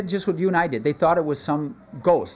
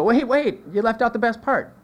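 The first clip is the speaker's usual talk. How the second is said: mock protest; 8 semitones higher than usual. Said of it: "And we go".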